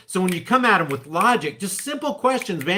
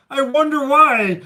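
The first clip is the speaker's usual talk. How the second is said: sarcastic; 6 semitones higher, 5 dB louder than usual. Real, not acted. Sarcastic reply to played clip.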